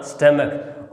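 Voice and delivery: स्टमक said as stəmək, with a short ə and a k ending; correct pronunciation. Shown as a demonstration. Teacher correcting how students say stomach, stəmək. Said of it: "इसका सही उच्चारण क्या होगा?".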